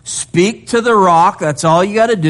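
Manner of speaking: a lightly voiced relaxed Lord; casual God voice. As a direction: play God breezily listing the plan. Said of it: "He gives them a simple three-part plan".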